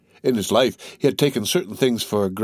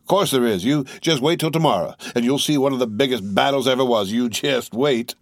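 higher, eager, lightly voiced soldier; boastful tall soldier; 3 semitones higher than usual. Tall soldier promising the youth a big battle, lightly voiced and eager. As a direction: lean into the promise of a big fight.

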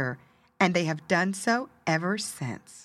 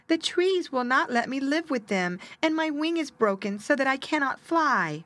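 high, small sad bird; 8 semitones higher than usual. Acted. Sad little bird answering.

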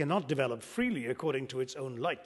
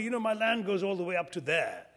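mildly boastful farmer, pitched higher; very proud; 4 semitones higher than usual. Retold or imitated. Indian farmer boasting to American visitor about his land, proudly. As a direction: show off your land with a touch of pride. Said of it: "the farmer says very proudly".

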